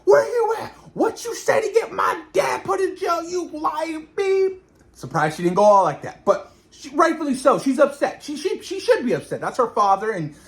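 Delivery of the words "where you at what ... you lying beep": high mock shout, half laughing; angry yelling. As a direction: yell at her accusingly, hammed up with laughs. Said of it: "Ronnie's mad".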